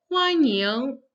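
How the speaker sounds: "欢" high and level, "迎" rising; first and second tone. Shown as a demonstration. Teacher shows the verb to welcome, "欢迎" high then rising. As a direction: hold "欢" high and loud, glide up on "迎". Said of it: "the first and the second tone".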